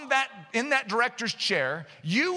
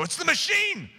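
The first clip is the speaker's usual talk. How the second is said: higher-pitched mock excuse; insistent, pitched-up finger-pointing; blame-shifting; 5 semitones higher than usual. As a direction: protest as if passing the blame. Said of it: "hide behind a machine and go".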